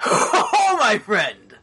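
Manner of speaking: high, bright "oh, my friend"; delighted high greeting. Acted. GM voices new figure greeting.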